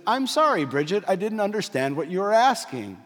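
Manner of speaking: lightly imitated voice assistant; Siri. Phone in wife's purse interrupts a conversation, mock assistant voice. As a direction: mimic a phone assistant apologizing, starting high. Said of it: "Well, it's just Siri".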